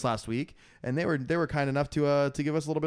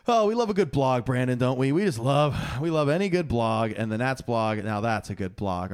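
insincere praise; 3 semitones lower than usual. Acted. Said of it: "I didn't take that as genuine".

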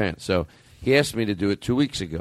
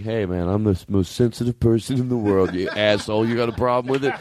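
hotheaded shouting; 6 semitones higher than usual. Retold or imitated. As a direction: yell it like a touchy guy picking a fight. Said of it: "I, like".

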